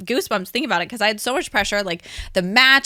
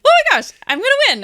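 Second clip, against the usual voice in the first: high and very fast, tumbling out in excitement; breathless disbelief at winning; thrilled gasp; 4 dB louder, much faster than usual. Retold or imitated. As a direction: blurt it as the winner's name rings out. Hearing her name called live.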